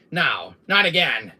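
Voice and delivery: loud, rising protest; dismayed. Acted. Villain seeing what is happening, dismayed. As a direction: cry out in mock dismay.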